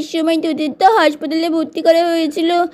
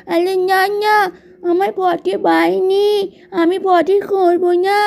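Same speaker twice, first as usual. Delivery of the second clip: put-on higher, slow crying little child refusing; whining child; 3 semitones higher, slower than usual. Toddler refusing the potty, tearful whine. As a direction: whimper a stubborn no like a toddler.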